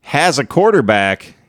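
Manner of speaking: mock hype. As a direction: draw it out as overblown hero talk. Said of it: "That's what everybody thinks".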